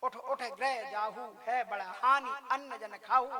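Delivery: lightly proclaimed oracle warning; heavenly voice. Acted. Heavenly voice warning Brahmins off the food, measured proclamation. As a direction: announce it like a voice from the sky. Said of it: "ये आकाशवाणी किसने की थी".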